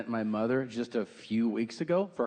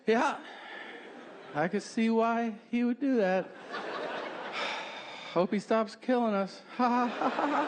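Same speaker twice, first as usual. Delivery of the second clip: fake agreeable; 9 semitones higher than usual. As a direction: give in with phony cheer. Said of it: "I took a deep breath and I just went".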